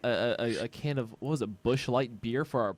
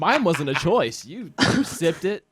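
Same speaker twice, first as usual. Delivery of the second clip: emphatic teasing accusation; 2 semitones higher, 5 dB louder than usual. Real, not acted. Teasing argument over beer.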